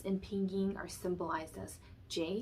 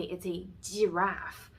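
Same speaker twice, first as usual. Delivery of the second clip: put-on Chinese accent; 4 dB louder, slower than usual. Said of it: "with a Chinese accent".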